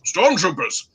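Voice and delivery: puzzled question in a put-on British accent; terrible British accent. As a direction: query it as an elderly Briton, in mock English accent. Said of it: "I will do my terrible British accent".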